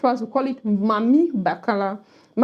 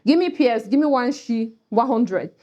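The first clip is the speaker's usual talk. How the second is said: lively Cameroonian pidgin demo. Shown as a demonstration. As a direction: ask for coins the Cameroonian way. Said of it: "When the Cameroonian says".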